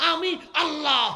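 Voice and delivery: high, loud, full shouted proclamation.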